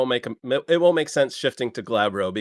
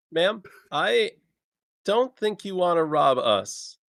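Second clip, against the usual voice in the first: calm warning; 6 semitones higher, slower than usual. Acted. Player calmly warns robber.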